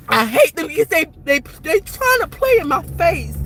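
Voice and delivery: crying, fed-up venting; bitter, tearful outburst; real tearful resentment. Real, not acted. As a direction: vent the hurt through tears. Upset, declares hatred while near tears.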